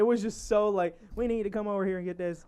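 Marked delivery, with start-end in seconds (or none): 1.2-2.4 put-on thick southern accent. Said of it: "too thick of an accent".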